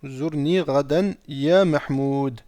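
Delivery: slow, deliberate dictation pace. Shown as a demonstration. Teacher repeating the sentence for students to write down, slowly. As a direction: read it out slowly so students can copy it. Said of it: "si c'est trop petit, n'hésitez pas".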